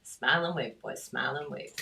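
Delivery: lightly voiced cartoon penguin leader; a hint of a film-quote penguin; Madagascar penguins. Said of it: "as the little penguins did in Madagascar".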